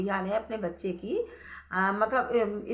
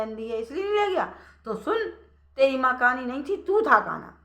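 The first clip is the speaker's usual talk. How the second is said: louder and higher, rising to a furious rebuke; angry scolding; 3 semitones higher, 5 dB louder than usual. Acted. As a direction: shame him in front of the whole village. Villagers scolding the son.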